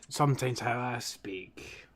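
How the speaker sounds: slow, heavy Glaswegian accent demo; thick Glaswegian accent. Shown as a demonstration. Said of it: "my granda put his thick Glaswegian".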